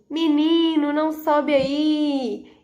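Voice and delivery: a hint of a scolding mom; scolding mother. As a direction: warn the child like a mother. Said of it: "Sabe quando a mãe fala assim".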